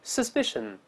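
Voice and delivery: "suspicion" with stress on -spi-; model reading. Shown as a demonstration. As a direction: read "suspicion" clearly for the class. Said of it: "我们大声来念". (示范朗读suspicion，重音在第二音节)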